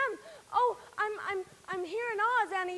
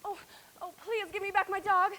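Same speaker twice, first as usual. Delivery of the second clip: begging through tears; crying as she pleads; tearful plea. Acted. Dorothy begging the witch for her dog, tearful.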